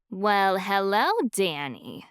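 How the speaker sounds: slow, teasing Irish-free purr. Acted. Ivy greeting her old flame Danny, slow teasing purr. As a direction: draw out the hello like a purr. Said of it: "Ivy purred".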